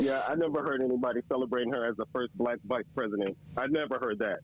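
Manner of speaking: low-pitched sarcastic denial. Real, not acted. Debater mocking the host's claim about her, sarcastic. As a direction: feign ignorance with dry sarcasm. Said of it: "I'm being sarcastic as fuck".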